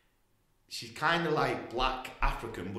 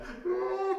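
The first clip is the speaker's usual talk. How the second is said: high, louder mock crying noise; imitated wail; 5 dB louder than usual. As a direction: mimic someone bawling, very high. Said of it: "crying her eyes out".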